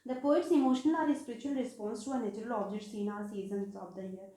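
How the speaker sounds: slow, deliberate reading of a definition; slow dictation. Shown as a demonstration. Teacher dictating a definition to her students, slowly and deliberately. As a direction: spell it out word by word so students can note it down.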